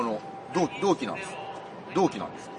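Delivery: low, soft tentative introduction; hushed, low-pitched retold greeting; imitated timid approach. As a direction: imitate someone quietly sidling up to talk. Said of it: "いきなり話しかけてきた人がいて".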